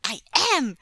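put-on high, loud little boy; excited cry. A narrator's reading. Son wriggling in father's arms, crying out excitedly. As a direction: shout the answer with glee. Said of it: "Jingyi cried excitedly".

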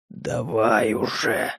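low, slow, strained rasp through pain; wounded fighter rasps at the toad, slow and low; hoarse rasp. A narrator's reading. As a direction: croak it out, barely holding on. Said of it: "прохрипел четырёхрукий Егора".

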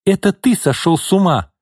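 shout. Acted. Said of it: "крикнула Лина".

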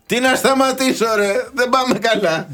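high, put-on voice of an indignant Frenchman; hammed-up angry Frenchman; mock Frenchman shouting. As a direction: play the Frenchman refusing to stop. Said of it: "Φωνάζει ο Γάλλος".

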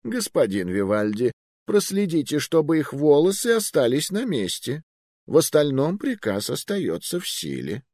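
high, casual order to kill; calm old magister. Acted. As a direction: order death lightly, as a wizard.

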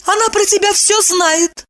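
voiced high as a woman, urgent; alarmed heroine speaking; young woman's voice. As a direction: raise the voice into the heroine's register. Female character warns him.

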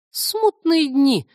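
slow, high, loud cry of delight; thrilled exclamation, drawn out; excited. Acted. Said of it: "восторженно сказал я". (восторженно)

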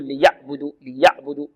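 ليعبدوا with the ayn choked off short; over-tight ayn. Shown as a demonstration. Teacher showing a reader's mistake, ayn squeezed shut. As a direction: cut the ayn of ليعبدوا hard. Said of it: "لا نقول".

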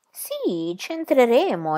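slow, weighty c'entreremo; emphatic exclamation. Acted. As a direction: lean on c'entreremo slowly. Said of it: "esclamò Pippi enfaticamente".

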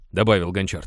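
ordinary delivery, nothing marked

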